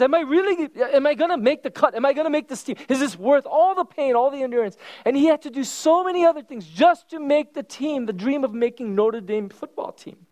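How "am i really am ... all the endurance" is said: lightly voiced doubting young man; Rudy's self-doubt. Pastor voicing Rudy doubting himself, a hint of despair. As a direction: ask it like a discouraged kid. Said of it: "One day he realizes".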